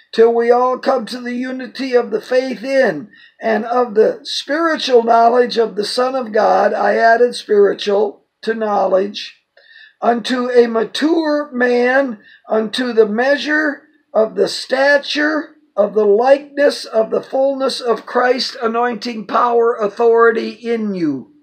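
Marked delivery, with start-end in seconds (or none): 0.1-6.7 raised, declamatory Bible reading; emphatic scripture reading. Acted. Reads scripture aloud emphatically. 10.0-21.3 raised, declamatory Bible reading; emphatic scripture reading. Acted. Reads scripture aloud emphatically.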